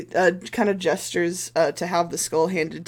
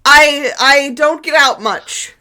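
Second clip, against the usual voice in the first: higher, eager priest voice full of fuss; fawning priest; 9 semitones higher, 10 dB louder, slower than usual. Acted. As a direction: fuss over them like a nervous host. Priest answers about horses.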